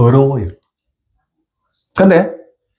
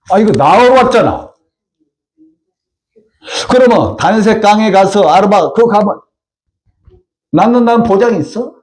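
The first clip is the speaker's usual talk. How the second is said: the general arguing with himself, higher; inner monologue; 6 semitones higher than usual. Retold or imitated. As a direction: talk yourself round, half-acted. Naaman reasoning with himself.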